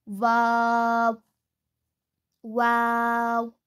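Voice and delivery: वाव slow, lips rounded but not touching; वाव: rounded w, lips apart; Arabic waw. Shown as a demonstration. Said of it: "दोनों होठों के गोल करने से".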